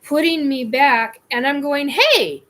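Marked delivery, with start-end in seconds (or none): 1.9-2.4 louder, high-pitched yelled "hey"; retold scream. Abductee to the ET pushing her back, retold scream. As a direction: call out in protest, reenacting the moment. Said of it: "I'm literally saying, screaming".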